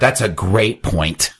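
sarcastic. Acted. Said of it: "That was sarcasm".

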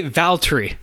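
"Valtteri" squeezed into two syllables, VAL-tree; two-syllable pronunciation. Retold or imitated. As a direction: drop the middle vowel of "Valtteri". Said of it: "two syllables instead of Valtteri".

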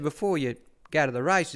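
a high, chirpy put-on trainer's voice; mock-cheerful boss dropping by; imitating Bart, breezy. Bart asks a favour.

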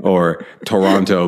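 "Toronto" drawn out slowly in a mean Oklahoma accent; slow, hard Oklahoma twang on "Toronto". Shown as a demonstration. Mocking an umpire's mean Oklahoma "Toronto". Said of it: "a mean Oklahoma accent".

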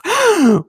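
high, loud acted gasp; dramatic comic gasp; sharp gasp. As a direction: gasp in mock shock. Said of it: "she gasps".

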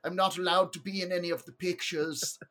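lightly put-on Australian accent; odd Australian accent. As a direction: boast about your belly in a wobbly Aussie voice. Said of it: "That's an odd Australian accent you got there".

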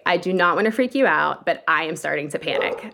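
wife to husband while stuck in the waves, very calmly. Retold or imitated. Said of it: "very calmly say".

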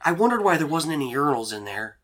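embarrassed, awkward character voice; Dean. Acted. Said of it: "he looks so embarrassed, and he's like".

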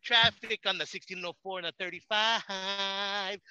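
slow, laughing traffic announcer; slow mock traffic reporter, laughing through it. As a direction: read the traffic like a radio reporter. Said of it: "I'll go like".

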